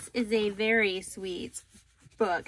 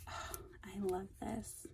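breathless whispered delight; hushed, awed whisper; 14 dB quieter than usual. Real, not acted. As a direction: whisper it as if in awe. Quiet delight over gift.

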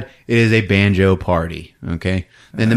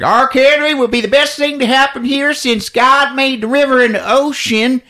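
a hint of a smarmy CEO; salesman executive; 13 semitones higher, 3 dB louder than usual. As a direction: sell the cannery like a huckster. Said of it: "He's like".

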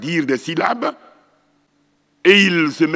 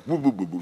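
lips-closed mumbling; 4 semitones lower, 5 dB quieter, faster than usual. Shown as a demonstration. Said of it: "les gens collent les lèvres".

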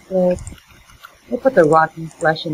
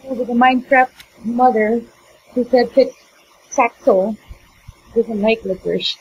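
ranting; 6 semitones higher than usual. Real, not acted. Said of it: "You're ranting right now".

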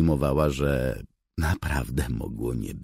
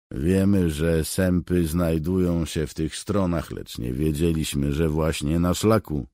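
raised, earnest soldier; soldier's voice; 4 semitones higher, 4 dB louder than usual. Acted. Soldier Bark explains to the cat, earnest. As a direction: report it to the cat respectfully.

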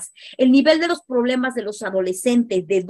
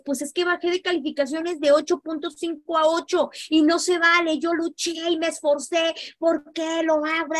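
put-on higher, whining teen voice; whiny teenager; 5 semitones higher than usual. Teen whining to his father about a bad grade, higher pitched. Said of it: "¿qué tienes?".

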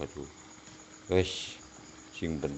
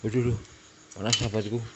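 burned by heat; 4 semitones higher, much faster than usual. Real, not acted. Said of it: "aduh, kok panas".

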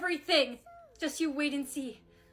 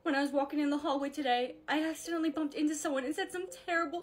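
fake crying; 2 semitones lower, 5 dB quieter than usual. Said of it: "make it look like I'm crying".

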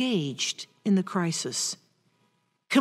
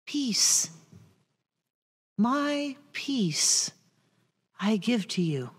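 hushed, soft blessing; whispered peace; 6 dB quieter, slower than usual. Acted. Jesus to frightened disciples, hushed whisper. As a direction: breathe the word Peace. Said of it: "the first thing he says?".

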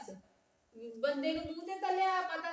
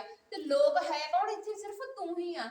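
slow, loud pointed question; pointed challenge; 4 semitones higher, 4 dB louder than usual. Acted. Daughter accusing her sister, slow and loud.

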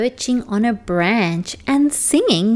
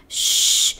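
whispered shush. Acted. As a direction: hush a friend gently. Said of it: "he whispered to the okapi".

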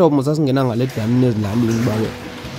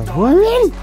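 cold shock yelp; 5 dB louder than usual. Real, not acted.

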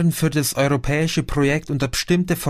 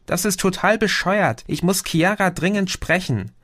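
whining Chrissy; 7 semitones higher than usual. Acted. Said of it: "jammerte Chrissy".

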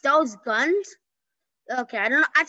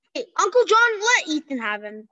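raised call. Real, not acted. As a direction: call his name to get attention. Calling to another player.

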